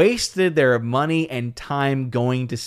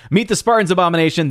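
excited recall; 5 semitones higher, 4 dB louder, faster than usual. Real, not acted. Suddenly remembering the title.

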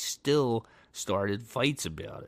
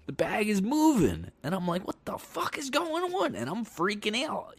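higher, rising panic in the retelling; panicked; 13 semitones higher than usual. Retold or imitated. Telling listeners about the moving bag, a panicked higher voice. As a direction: relive the fright as the voice climbs.

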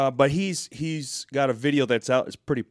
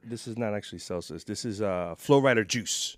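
quiet aside; 4 semitones lower, 6 dB quieter than usual. Real, not acted. Joking aside about the drink.

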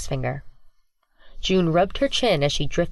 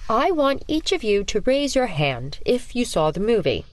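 sinister teacher; 5 semitones higher than usual. Acted. Teacher demands raised hands.

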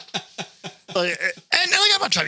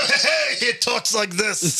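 slow, drawn-out smoker's voice; Carl from Aqua Teen; 5 semitones higher, much slower than usual. Shown as a demonstration. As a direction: demonstrate a creepy lifelong smoker's drawl. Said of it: "actually sounds like Carl from Aqua Teen".

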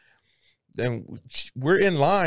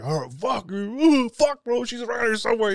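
mock anxious friend; 9 semitones higher than usual. Voicing Alex's worry.

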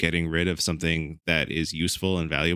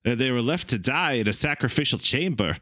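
Christopher Walken voice; 3 semitones higher than usual. Shown as a demonstration. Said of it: "Christopher Walken voice".

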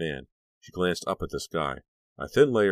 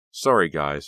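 light; 7 dB louder, slower than usual. Acted. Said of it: "keeping her voice light".

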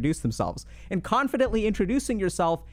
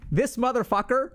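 envious anxious onlooker; 6 semitones higher than usual. Retold or imitated. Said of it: "they're all socially anxious".

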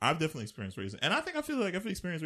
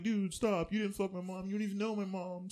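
mock pleading; 5 semitones higher than usual. Acts bullied person arguing back.

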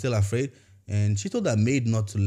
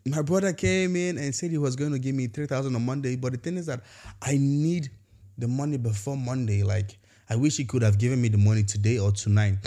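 much higher, eager mock-excited caller; woman excitedly telling the pastor her good news, higher voice; excited retelling; 4 semitones higher than usual. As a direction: retell her thrilled phone call, pitched way up. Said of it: "she was so excited".

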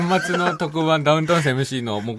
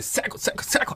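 quiet demo. Retold or imitated. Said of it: "って".

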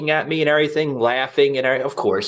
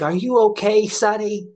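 high-pitched imitation of an old lady; little old lady; 9 semitones higher than usual. Old lady to the injured man, high imitated old-lady voice. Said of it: "this little old lady".

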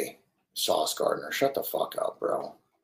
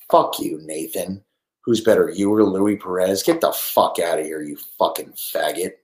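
angry chat yell; 8 dB louder than usual. Real, not acted. Yelling insults at chat users.

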